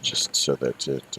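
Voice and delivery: breath catching in the throat; short of breath. Real, not acted. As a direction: talk while struggling for air. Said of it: "sorry, I can't breathe".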